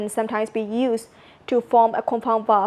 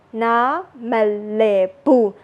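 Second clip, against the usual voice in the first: 1 slow demo; much slower than usual. Shown as a demonstration. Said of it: "So ma and bu will go between na and le".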